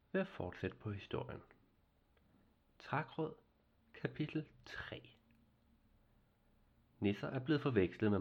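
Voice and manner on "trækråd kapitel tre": soft whispered chapter title. A narrator's reading. Storyteller whispers the chapter title to listeners. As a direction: breathe the chapter title, hushed.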